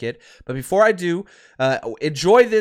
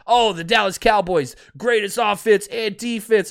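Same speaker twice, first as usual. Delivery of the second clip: mock pundit hype; 2 semitones higher than usual. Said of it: "and all that".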